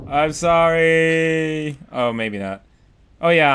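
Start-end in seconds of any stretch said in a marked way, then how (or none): 0.1-1.8 slow, long-held plaintive cry; mock farewell. Player saying goodbye to cruel world, drawn-out lament. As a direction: stretch it out as you fall away.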